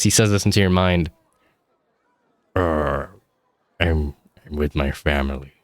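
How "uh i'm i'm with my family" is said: lightly voiced dad. GM voices dad speaking telepathically.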